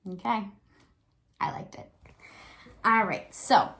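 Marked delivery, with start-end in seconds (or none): 1.4-1.9 soft whispered confession. Real, not acted. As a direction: whisper it like a little secret. Whispered aside to kids.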